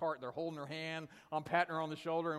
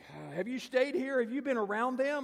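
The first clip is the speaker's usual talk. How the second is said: high, loud pressing questions; imitated agitated, high-pitched grilling; urgent questioning; 8 semitones higher, 6 dB louder than usual. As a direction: keep pressing as a worked-up woman. Retold lady keeps pressing him.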